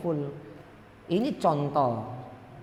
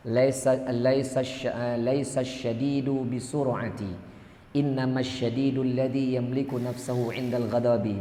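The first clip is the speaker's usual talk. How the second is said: slow, measured Arabic recitation; hadith recitation; slower than usual. Acted. Preacher quoting the Prophet to the congregation, slow measured recitation. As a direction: recite deliberately, drawing out the syllables.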